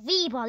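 "Rebel" said REE-ball; wrong name. Pretend. Robot objects to his misheard name, "Rebel" as REE-ball. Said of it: "I said Rebel, not Rebel".

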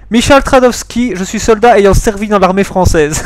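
put-on Polish soldier stating name and service, accent laid on; attempted Polish accent, slow on the name. Accused soldier answers the interrogator, mock Polish accent. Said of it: "il faut que je prenne un accent polonais".

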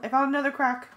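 high loud excited call. A narrator's reading. Friend calls to others about the crack, high and loud. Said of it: "Cassie called".

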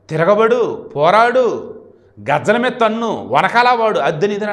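Posani Krishna Murali dialogues. Retold or imitated. Posani telling Roja to fight back, mock rousing. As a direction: urge them on in short, high commands. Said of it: "ఓ రేంజ్లో డైలాగులు చెప్పాడు".

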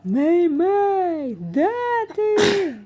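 high, loud booming call. A narrator's reading. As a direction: thunder her name across the stadium. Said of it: "прогримів гучний голос".

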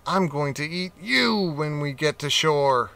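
a touch of spluttering menace; mild threat; spluttering cat. Acted. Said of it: "he spluttered".

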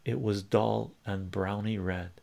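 measured recitation with weighted pauses; lyrics read aloud. Real, not acted. Streamer reading a soldier's lyrics to chat, measured recitation. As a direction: read it out like a war poem.

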